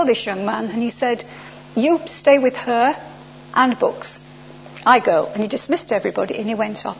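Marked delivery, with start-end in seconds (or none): 1.8-5.3 slow, word-by-word order in halting English; imitating a foreign officer's command; curt official. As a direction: give orders in spare, broken English. Retold order in broken English.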